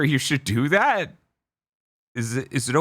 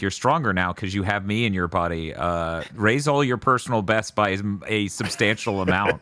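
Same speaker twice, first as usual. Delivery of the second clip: Green Goblin voice; 7 semitones lower than usual. Retold or imitated. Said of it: "it spoke to me like the Green Goblin".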